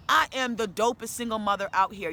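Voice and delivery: proud declaration. Real, not acted. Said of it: "Yes, I said it".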